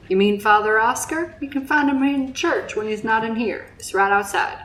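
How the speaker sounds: put-on made-up rustic accent, not English; casual villager in an improvised accent; put-on weird accent. Villager tells a stranger where the priest is, in a put-on accent. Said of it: "giving them weird accents that I can do".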